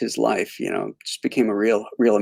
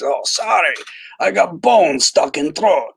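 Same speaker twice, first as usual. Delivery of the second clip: slow, higher croaky Ygor voice; Lugosi's Ygor; 6 semitones higher than usual. Retold or imitated. Film fan quoting Ygor spitting on a man, mock Ygor voice. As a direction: lightly mimic the broken-necked Ygor. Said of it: "and he says".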